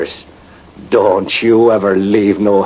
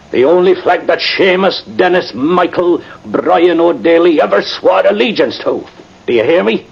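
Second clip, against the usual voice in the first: proud fervent declaration; 8 semitones higher than usual. Acted. Drunk sergeant's passionate flag speech.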